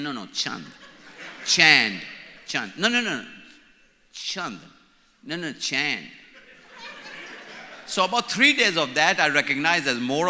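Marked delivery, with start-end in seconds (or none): 0.0-6.1 mock insistence, Chand repeated; insisting on his name. Retold insisting to Americans on his name. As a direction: keep correcting them on Chand. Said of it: "I said".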